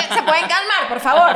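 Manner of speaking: irritated call to calm the passengers; annoyed. Retold or imitated. Annoyed passenger telling the screaming cabin to calm down, loud. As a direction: snap at the panicking passengers, half laughing. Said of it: "pero arrecha".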